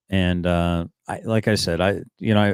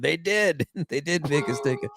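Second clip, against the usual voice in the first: laughing; 8 semitones higher, 4 dB quieter than usual. Retold or imitated. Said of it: "we were both basically at the same time said".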